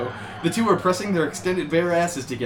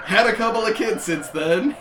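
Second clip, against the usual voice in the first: anguished shout; 7 semitones higher than usual. Acted. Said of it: "he shouted in anguish".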